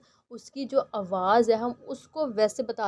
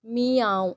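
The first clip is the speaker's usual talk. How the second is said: a louder, fuller meow; louder cat meow; 6 dB louder, much slower than usual. Shown as a demonstration. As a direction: call it out like a cat. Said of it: "cat कैसे बोलती है?".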